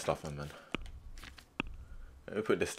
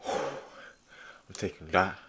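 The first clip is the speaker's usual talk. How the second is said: sly whisper; 5 semitones lower, 13 dB quieter, much slower than usual. Real, not acted. Looting, whispered slowly.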